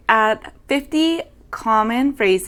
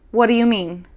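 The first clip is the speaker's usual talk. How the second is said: "What do you mean" run together quickly, the "do" nearly swallowed; casual fast "What do you mean"; said really fast. Shown as a demonstration. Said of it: "when we say it really fast".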